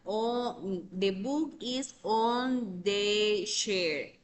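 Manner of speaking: slow, careful English example, word by word; slow example sentence. Shown as a demonstration. Teacher reads an English example sentence slowly to class. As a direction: spell the sentence out slowly for learners. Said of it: "que yo diga".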